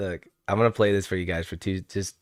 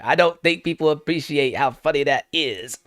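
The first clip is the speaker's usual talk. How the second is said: higher-pitched, hammed-up incredulous quote; mock crying with laughter; 6 semitones higher than usual. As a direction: imitate someone cracked up to tears. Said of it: "almost falls out of his chair crying".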